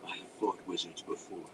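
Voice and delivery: low, hushed aside; under the breath. A narrator's reading. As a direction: say it under your breath to a companion. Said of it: "Drizzt replied to Belwar under his breath".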